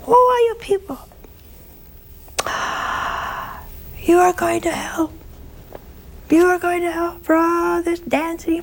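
very high, shrill-edged fiery preacher; high-pitched preaching curé. Retold or imitated. Old priest thundering hell at his parish in a high voice. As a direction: rail at the sinners in a piercing high voice. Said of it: "the curé had a very high-pitched voice".

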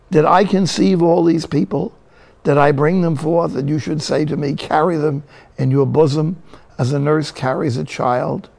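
mildly fed-up plea, read out with emphasis; a touch of exasperated complaint; bellyaching. Acted. Fed-up Moses protesting to the Lord, mild bellyaching. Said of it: "He's bellyaching".

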